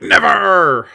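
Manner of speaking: high, loud, drawn-out cry; hammed-up heroic refusal, stretched out; defiant mock shout. Podcaster imitates Luke refusing Vader, defiant mock shout. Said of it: "Luke is like".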